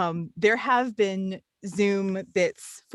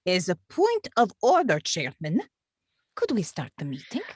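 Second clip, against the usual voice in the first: lightly put-on Russian accent as the clerk; a deliberately bad Russian accent, only hinted at. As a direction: clerk addressing the chairman in a faint mock Russian accent. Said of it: "bad Russian accents".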